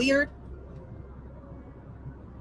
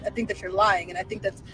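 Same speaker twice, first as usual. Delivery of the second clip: mock hushed accusation; 6 semitones lower, 6 dB quieter than usual. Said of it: "do an impression of what I feel like they sound like".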